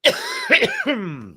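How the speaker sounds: harsh cough fit; real cough. Real, not acted. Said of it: "Excuse me for coughing".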